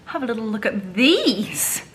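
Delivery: hushed show-and-tell whisper. Real, not acted. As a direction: breathe it like a secret. Showing nails to camera.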